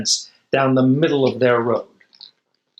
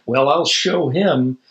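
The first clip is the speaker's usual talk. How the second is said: huffy; slower than usual. Acted. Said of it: "he huffed".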